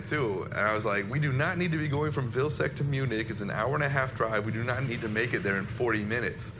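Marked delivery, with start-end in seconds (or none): 1.1-6.5 higher-pitched, mildly freaked-out protest; retold freak-out. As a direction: protest as if mildly rattled by the speed. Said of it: "I freaked out then".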